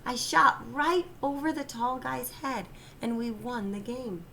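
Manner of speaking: high, triumphant cry; excited shout. A narrator's reading. Michael bursting in to tell Daddy he won, excited. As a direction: burst in bragging with joy. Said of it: "he shouted".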